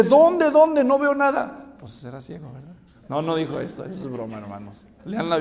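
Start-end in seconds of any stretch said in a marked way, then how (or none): 0.0-1.8 loud, high-pitched urgent questions; acted eager clamour. Blind man asking where Jesus is, acted eager cry. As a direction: cry out as if searching about.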